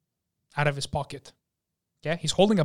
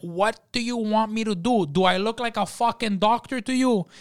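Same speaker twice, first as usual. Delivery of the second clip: raised-pitch indignant questions; exasperated waiter; 5 semitones higher than usual. Retold or imitated. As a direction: act out a waiter scolding a customer. Waiter berating the injured customer.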